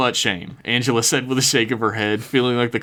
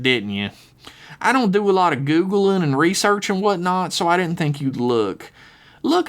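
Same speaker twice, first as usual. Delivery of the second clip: put-on high southern girl voice; 5 semitones higher than usual. Lizzie apologizing in voice.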